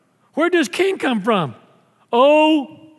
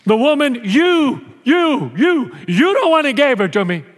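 imitating someone's whiny blaming, a bit louder; mock whiny excuse; 5 semitones higher, 4 dB louder than usual. Imitating a friend's excuse from last night, whiny and stammering. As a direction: stammer out the blame like a sulky kid. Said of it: "you were saying that last night".

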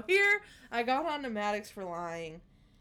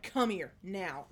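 slow, firm parent order; stern command; slower than usual. Retold or imitated. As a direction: lay down the law slowly. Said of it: "Guys, I said it just like that".

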